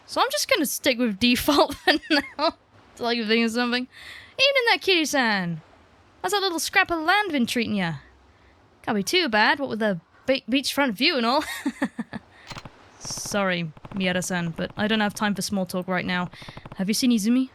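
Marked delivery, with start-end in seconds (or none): 4.4-13.0 lightly voiced, lilting neighbour greeting; chatty neighbour. 13.0-17.5 composed game hero. Acted. Voices hero replying to neighbour.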